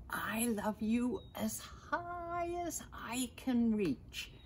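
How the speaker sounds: put-on gentle whispered child hare; little hare whisper. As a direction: breathe it like a small sleepy hare. Little hare speaking to big hare.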